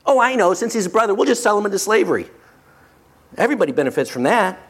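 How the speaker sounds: fast, breezy scheming; quick scheming. Retold or imitated. Brother pitching a slavery sale, quick and scheming. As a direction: rattle off the idea as a handy fix.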